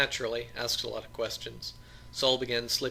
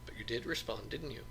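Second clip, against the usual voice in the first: softer, sultry, sure of herself; confident and sensual; 5 dB quieter than usual. Acted. Wife teasing husband on the phone, sensual and quiet. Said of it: "Her voice was confident and sensual".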